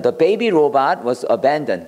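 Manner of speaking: slow, careful model sentence for learners; slow teacher read. Shown as a demonstration. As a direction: read it out slowly, word by word. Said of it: "model sentence".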